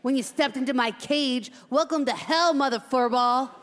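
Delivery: slow, menacing cage veteran; tough hamster. Acted. Veteran hamster warns the new cage mate, tough and threatening. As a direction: lay down the law, spacing out the warnings.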